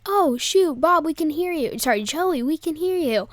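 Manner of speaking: retold anxious heads-up; mock warning call. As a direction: imitate hissed-at friends being warned, in a lifted voice. Mock warning call to noisy friends.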